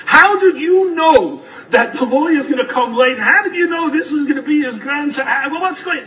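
high, loud, half-laughing amazement; pressing the Rebbe for how he knew; incredulous demand. Retold or imitated.

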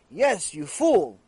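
slow, drawn-out retort; exasperated. Retold or imitated. Friend answering the foolish beer seller, slowly exasperated. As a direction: spell it out slowly for a fool.

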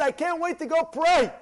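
can't wait to pray; excited. Retold or imitated. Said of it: "A guy gets excited".

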